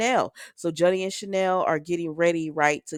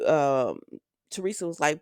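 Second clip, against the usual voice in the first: normal talking voice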